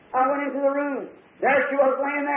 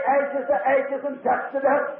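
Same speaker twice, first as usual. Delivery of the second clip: preacher at graveside; slower than usual. Retold or imitated. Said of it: "I heard the preacher say".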